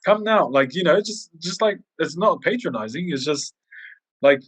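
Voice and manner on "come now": higher, climbing, slow and simple words; speaking simply to a Chinese man, climbing higher; simple English for a foreigner. Retold or imitated. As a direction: talk down kindly to a struggling customer. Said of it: "And then I go".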